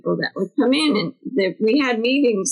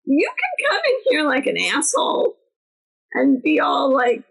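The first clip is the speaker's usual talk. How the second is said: scolding a rude newcomer; 4 semitones higher than usual. Retold or imitated. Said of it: "I said".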